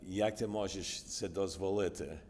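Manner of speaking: "Jak ty możesz se dozvoliti?" said in Ukrainian. Shown as a demonstration. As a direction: switch into Ukrainian at an even pitch. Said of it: "Say that in Ukrainian".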